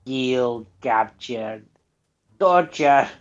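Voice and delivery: mock Russian accent, single emphatic words; hammed-up Russian menace, word by word; Russian mobster. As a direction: list threats in a lightly put-on Russian voice. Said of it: "they were Russian".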